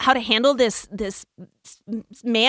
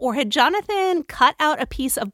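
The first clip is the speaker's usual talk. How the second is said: baffled; 3 semitones higher than usual. Retold or imitated. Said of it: "And I'm like".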